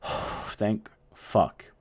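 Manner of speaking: breathed-out whisper of relief; relieved whisper. Retold or imitated. Friends safe after the sheriff flies by, whispered relief.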